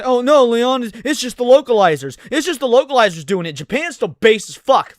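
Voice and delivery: hammed-up imitation of a know-it-all defender; mock reassuring fan brushing off the complaint.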